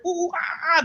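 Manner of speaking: high ape whoop; monkey hooting. Acted. Tenants hear this through the wall, high monkey hooting. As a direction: hoot shrilly like a monkey. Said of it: "like, they hear".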